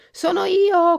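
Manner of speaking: high, loud little caller. A narrator's reading. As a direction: announce yourself in a tiny high voice. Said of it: "continuò la vocina".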